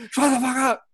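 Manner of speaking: high-pitched mock exclamation; sudden high retort, retold; imitated quick outburst. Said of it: "It's just this quick".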